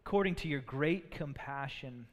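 reverent psalm read; humble prayer. Acted. Reads David's psalm of repentance.

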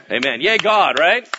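ordinary delivery

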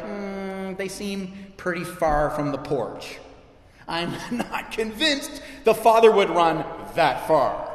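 slow, drawn-out doubtful musing; hammed-up reluctance, stretching the words out; mock sceptical judgement. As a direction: play someone dubiously sizing up a neighbor. Voicing a sceptical, judging churchgoer.

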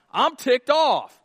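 loud, slow, seething; angry. Acted. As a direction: spit it out, fed up. Frank voiced angry.

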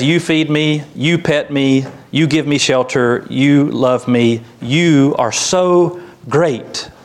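lightly voiced devoted dog, stressing each YOU; adoring dog. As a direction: gush gently, slowing into drawn-out praise. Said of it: "Dog says".

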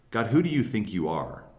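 mildly indignant challenge to God; angry attitude. Acted. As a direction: challenge God with a touch of acted anger. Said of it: "That's an angry attitude".

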